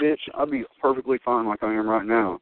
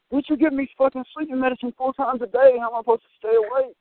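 mock complaint; 11 semitones higher than usual. Retold complaint to nurse.

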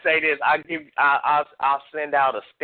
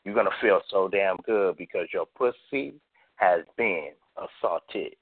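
poetry performance. Acted. Reads an erotic poem.

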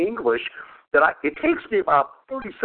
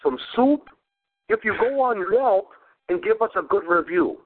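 imitating Jimmy; 4 semitones higher than usual. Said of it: "He says".

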